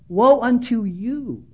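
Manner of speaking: slow, drawn-out pronouncement on others; imitated judgmental declaration. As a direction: stretch out a judgmental 'woe unto you'. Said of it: "A little judgmental".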